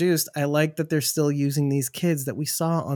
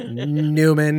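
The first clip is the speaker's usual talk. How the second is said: grudging Newman greeting; Seinfeld Newman; 5 dB louder than usual. Retold or imitated. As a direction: sneer the name. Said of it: "of the Seinfeld".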